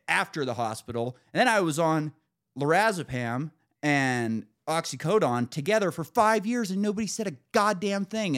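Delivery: retold tirade, mounting exasperation; going off. Patient goes off at the provider about old warnings, mounting irritation. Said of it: "I kinda go off".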